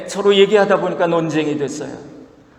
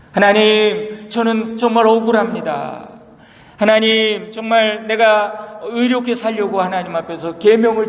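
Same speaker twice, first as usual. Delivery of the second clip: raised, pleading cry of the wronged; Job's plea to God; 4 semitones higher than usual. Retold or imitated. Preacher voicing Job protesting to God, pleading and raised. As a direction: lift the voice to protest innocence before God. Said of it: "욥이 하나님 앞에 항변해요".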